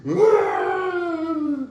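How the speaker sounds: high-pitched laugh breaking through; laughing despite himself at a grim memory. Real, not acted. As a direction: laugh bursting out mid-story. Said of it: "It ain't funny".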